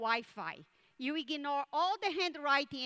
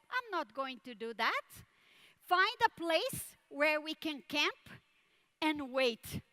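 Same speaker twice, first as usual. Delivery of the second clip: calm. Retold or imitated. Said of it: "the father very calmly says".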